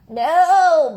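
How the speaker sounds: sharp loud refusal; barked no. Acted. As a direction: snap a flat refusal. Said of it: "barked the sheep".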